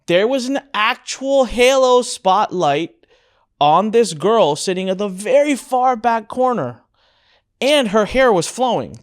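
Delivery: a lightly played Bollywood slow-motion swoon; dreamy Bollywood moment. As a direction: paint it like a movie love scene, slowly. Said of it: "I remember as a Bollywood moment".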